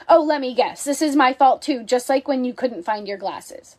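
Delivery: snippy defensive comeback; mildly defensive, lightly snapping back. Shown as a demonstration. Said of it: "The defensive response".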